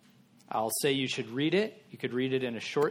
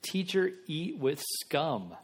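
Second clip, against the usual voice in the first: scornful question; 2 semitones higher, slower than usual. Retold or imitated. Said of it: "they asked his disciples".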